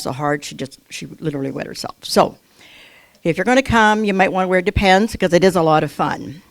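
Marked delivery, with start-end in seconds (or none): 5.1-6.4 laughing through the joke, a bit louder. Real, not acted. Speaker to congregation, joking about laughter yoga, laughing. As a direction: let the laugh spill into the words.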